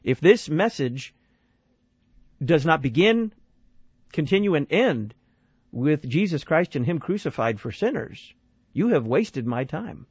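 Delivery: each phrase set apart by pauses, slow to the end; slow emphatic verdict. Retold or imitated. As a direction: lay it down slowly, one phrase at a time. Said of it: "he puts it exactly the way it ought to be put".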